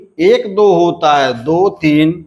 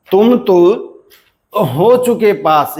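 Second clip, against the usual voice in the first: "तुम तो" raised, falling on "पास"; intonation demo; 3 semitones higher than usual. Shown as a demonstration. Teacher repeating the example with its marked pitch levels. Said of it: "तीन और पास पे एक".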